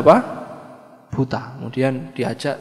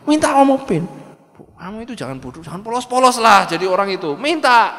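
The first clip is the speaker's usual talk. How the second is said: nagging busybody; 6 semitones higher, 4 dB louder than usual. Acted. Busybody tells wife to demand car.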